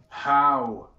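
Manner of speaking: slow, deliberate suspicion, trailing to a hush; suspicious. Acted. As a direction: draw the question out with distrust.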